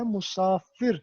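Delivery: مسافر with short u and final ir, rising; teacher sounding out مسافر correctly; correct pronunciation. Shown as a demonstration. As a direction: model مسافر as mu-saa-fir. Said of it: "نہ کہ مسافر".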